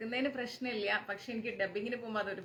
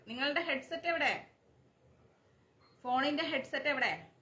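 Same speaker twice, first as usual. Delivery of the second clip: raised voice; 7 semitones higher than usual. Real, not acted. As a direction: push the voice up over a weak line. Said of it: "ഇതിനേക്കാൾ voice raise ചെയ്താൽ".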